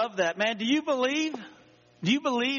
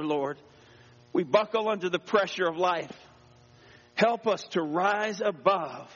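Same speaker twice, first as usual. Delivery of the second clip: prayer. Acted. Pastor praying before the message, humble and slowing. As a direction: pray it humbly, easing down.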